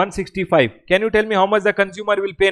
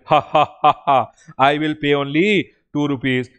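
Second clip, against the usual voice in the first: mock gloating laugh; 5 semitones lower than usual. Teacher acting a dealer gloating at government, mock laugh. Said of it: "So I will tell".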